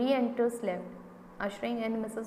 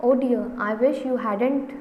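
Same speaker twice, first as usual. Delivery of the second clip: nervous; 6 dB louder than usual. Acted. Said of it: "in a very nervous manner".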